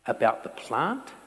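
fast, prodding Hey question; quick challenging tone; brisk pointed question. Shown as a demonstration. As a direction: rattle it off as a nudge. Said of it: "But this time it's".

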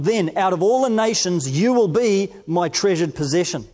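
measured, deliberate Bible reading; scripture reading. Acted. Preacher reading First Peter to the congregation, measured and solemn. Reads God's words from Exodus.

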